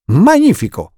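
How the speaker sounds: delighted uncle's exclamation; exclaiming. Acted. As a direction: burst out with joy. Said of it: "esclamò lo zio Monti".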